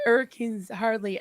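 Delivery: imitated London accent, 'urricanes 'ardly; London accent, dropped H's. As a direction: drop the H's like a London flower girl. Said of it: "she didn't pronounce her A".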